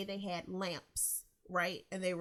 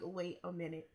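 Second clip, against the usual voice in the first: dawning realisation; 2 semitones lower, 7 dB quieter than usual. Retold or imitated. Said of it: "I was like".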